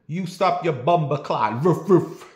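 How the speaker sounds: put-on dog arguing with the Jamaican man, Jamaican accent with barks. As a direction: bark back in patois. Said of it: "that dog said".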